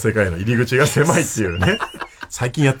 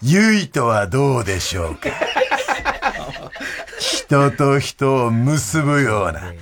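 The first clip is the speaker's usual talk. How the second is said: slow, deliberate mail read-out; listener mail reading; 2 semitones higher, much slower than usual. Acted. Host presenting a listener's baby-name idea, measured mail reading. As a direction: read it out slowly, phrase by phrase.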